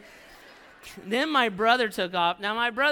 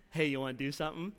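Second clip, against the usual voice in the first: sneaky brother; 5 semitones lower, 5 dB quieter, much faster than usual. Retold or imitated. Brother's sly suggestion in story.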